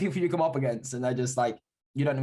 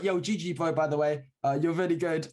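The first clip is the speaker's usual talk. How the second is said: put-on higher, stiff robot-like kid voice; 4 semitones higher than usual. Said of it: "He was talking like a robot".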